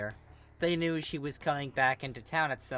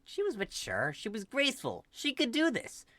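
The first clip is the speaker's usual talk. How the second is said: rising higher, strained mantra; self-soothing; 9 semitones higher than usual. Acted. Mari calming herself before the door, strained mantra. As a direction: talk yourself into calm.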